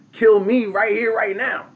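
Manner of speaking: high, loud defiant challenge; defiant dare. Retold or imitated. Elder woman daring the tyrant chief to strike her, high and loud.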